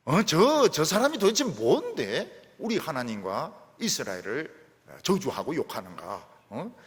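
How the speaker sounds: David's indignant outcry. Acted. David fumes at Goliath's insults, loud and indignant. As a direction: rail against the giant with fire. Preacher voices David's angry outburst.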